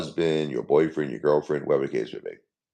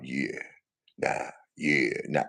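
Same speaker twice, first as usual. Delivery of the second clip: softer, bored mumbled yeah and nah; mock kid answers; 3 semitones lower, 6 dB quieter, slower than usual. Father mimicking his young kids' bored replies, soft mumble. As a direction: lightly mimic his kids shrugging off questions. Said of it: "every answer from a kid is basically yeah or, or nah".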